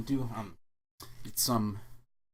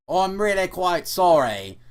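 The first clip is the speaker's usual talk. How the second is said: stifled laughter; 6 semitones higher, 8 dB louder, slower than usual. Acted. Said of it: "attempting to contain his laughter".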